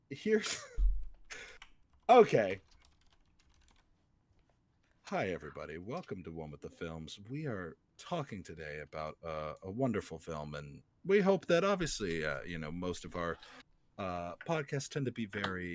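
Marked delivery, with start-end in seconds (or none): 5.0-10.8 mock serious host voice. Sudden serious host intro.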